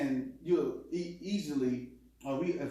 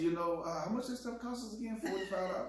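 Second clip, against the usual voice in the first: saying it nice; 3 semitones higher, 5 dB quieter than usual. Retold or imitated. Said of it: "I'll try to say it nice".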